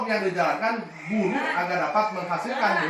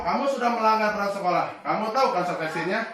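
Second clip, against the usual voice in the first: quick, slightly raised warning; brisk rule-reading; 4 semitones higher, faster than usual. Shown as a demonstration. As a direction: cite the rules to the pupil. (nada tegas cepat memantau)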